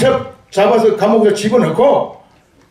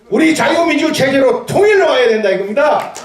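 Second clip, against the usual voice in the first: rousing shout; 5 semitones higher than usual. Real, not acted. Rally speech, shouted demand.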